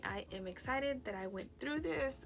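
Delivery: talking through the hiccups; words interrupted by a hiccup. Real, not acted. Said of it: "I got the hiccups".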